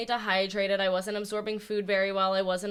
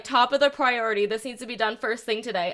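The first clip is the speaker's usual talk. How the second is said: retold bossy text, a touch firm; mildly demanding; 2 semitones higher, 4 dB louder than usual. Boss reading out her text to the assistant, mildly demanding. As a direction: give a mock order, lightly emphatic. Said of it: "That was so demanding".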